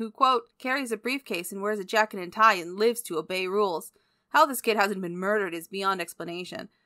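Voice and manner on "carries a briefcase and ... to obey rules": ordinary delivery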